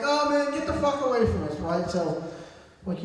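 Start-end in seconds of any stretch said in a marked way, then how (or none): 0.0-1.6 high-pitched mock protest; retold annoyance. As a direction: imitate fed-up men waving someone off. Voicing the men refusing the fight.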